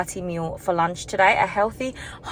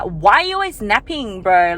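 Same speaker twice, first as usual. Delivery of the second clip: picking a fight; 5 dB louder than usual. Retold or imitated. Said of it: "start a fight with my husband".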